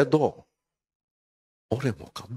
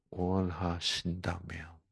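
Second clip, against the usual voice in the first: slow, lowered, courteous plea; polite deference; 4 semitones lower, 9 dB quieter, slower than usual. Acted. Leper minding manners before Jesus, polite deference. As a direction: draw it out softly and politely, low. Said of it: "그거를 예의를 차린다니까".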